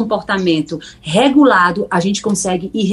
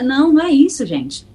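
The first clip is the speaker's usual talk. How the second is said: ordinary talk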